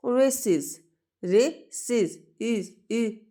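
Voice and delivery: "रेसेस" twice with the "इज" ending lifted high; stressed iz ending. Shown as a demonstration. Teacher showing students the iz sound in races. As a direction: lift and lean on "इज" in "रेसेस". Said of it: "इज sound आ रही है".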